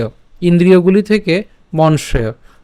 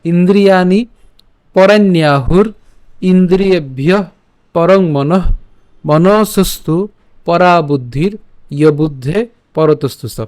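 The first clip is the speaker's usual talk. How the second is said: measured, chanted reading of a Gita shloka; Sanskrit verse recitation. Shown as a demonstration. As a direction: recite each half-line with a pause, like a teacher. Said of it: "আবার বলছি আমি আরেকবার".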